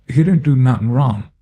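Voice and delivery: begging him to stop; pleading woman. Acted. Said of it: "Missus Louise kept muttering".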